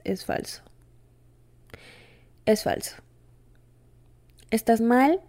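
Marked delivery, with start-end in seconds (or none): 0.0-0.6 hushed whisper, much softer. Real, not acted. Host whispers that healing is a lie. Insisting healing concept is fake. 2.5-3.0 hushed whisper, much softer. Real, not acted. Host whispers that healing is a lie. Insisting healing concept is fake.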